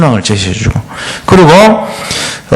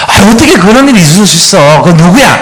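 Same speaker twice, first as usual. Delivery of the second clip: higher, louder outraged sympathy; sympathetic outrage; 5 semitones higher, 4 dB louder than usual. Retold or imitated. Friend on the phone siding with the caller, outraged. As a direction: gasp on your friend's behalf. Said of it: "그러면 그가, 친구가".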